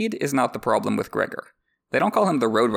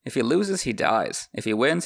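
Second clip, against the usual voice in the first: ordinary delivery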